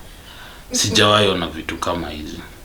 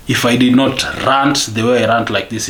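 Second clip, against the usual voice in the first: louder, higher venting; ranting with raised voice; real rant; 4 semitones higher, 5 dB louder than usual. Real, not acted. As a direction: let it out as a frustrated rant. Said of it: "I'm ranting like I'm ranting right now".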